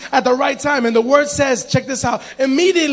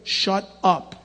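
stern; 6 semitones lower than usual. Retold or imitated. Preacher voicing tough guys to blind man, low stern warning. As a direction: drop low and space out the words. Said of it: "guys like Joe and Andrew were like".

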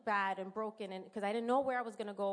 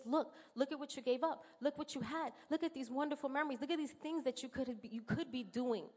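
taunting enemy voice; 3 semitones higher than usual. Retold or imitated. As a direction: needle her like the enemy voice in her head. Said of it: "The enemy just keeps throwing it in your face".

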